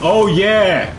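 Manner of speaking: loud, high victory shout; triumphant yell. Real, not acted. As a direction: cheer it out as they back off. Gamer cheers as enemies retreat.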